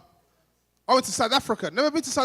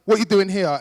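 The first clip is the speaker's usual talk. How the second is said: surprised demand; 6 dB louder than usual. Retold or imitated. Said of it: "I was like".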